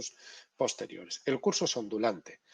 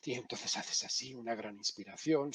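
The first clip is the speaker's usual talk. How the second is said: demo sniff; 9 dB quieter than usual. Shown as a demonstration. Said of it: "inspiración nasal".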